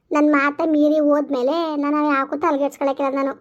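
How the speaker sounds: rising to a loud angry challenge; angry outburst. Acted. Mother snapping at the other mother, angry outburst. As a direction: hurl it as a final challenge. Mother shouting during quarrel.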